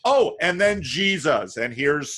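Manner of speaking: lightly hammed-up evangelical sales pitch, lifting as it goes; mock evangelist. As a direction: send up an evangelist tacking on the sermon. Parodies opportunistic evangelists' pitch.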